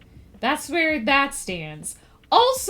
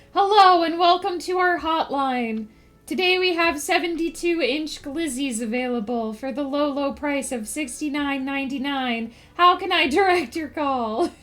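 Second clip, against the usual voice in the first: chirpy phone-line greeting; customer service voice. Pretend. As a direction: read it like a hotline operator. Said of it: "Stryker's customer service voice".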